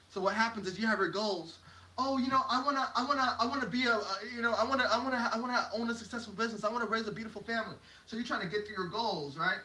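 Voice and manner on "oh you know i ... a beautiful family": lightly put-on dreamer, a bit higher; eager goal-lister. Speaker voices someone listing life goals, mildly acted eagerness. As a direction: rattle off wishes as they pile up.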